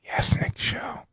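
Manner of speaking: hushed whisper. Pretend. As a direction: whisper it like a secret. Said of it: "why are we whispering?".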